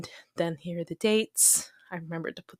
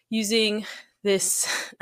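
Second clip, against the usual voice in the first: out of breath, whispering; winded, barely voiced; breathless whisper; 3 semitones higher, much slower than usual. Real, not acted. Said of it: "sorry, I'm out of breath".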